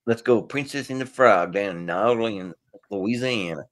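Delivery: a hint of a put-on New Orleans accent; mock New Orleans accent, half-hearted. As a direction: lightly play the New Orleans local. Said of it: "Master of accents".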